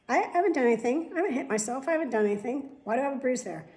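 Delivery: puzzled, can't make sense of it; baffled. Real, not acted. Baffled by unexplained bruises.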